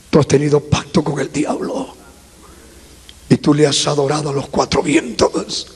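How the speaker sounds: low, soft, solemn divine pronouncement; voice of God. Retold or imitated. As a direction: speak as God, low and measured. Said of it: "Y Dios me dijo". (voz de Dios, grave y suave)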